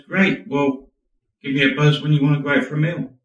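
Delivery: high, quick, lightly acted brush-off; breezy acceptance. Rejected woman agrees to just friends, breezy.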